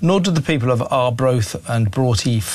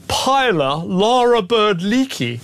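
mocking name; 5 semitones higher, slower than usual. Host mocking her full name.

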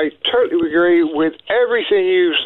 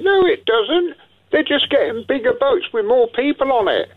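real exasperation, pitch leaping high; exasperated rebuttal; 8 semitones higher than usual. Real, not acted. Caller rebutting the claim on boats, exasperated.

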